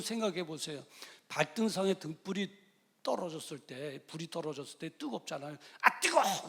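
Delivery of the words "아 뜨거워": yelp of pain. Retold or imitated. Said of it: "그리고 소리 지르잖아요".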